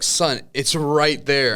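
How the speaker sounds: retold exasperated dad, dragged out slowly; frustrated father. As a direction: spell it out to the child in mock exasperation. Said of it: "I'm getting frustrated".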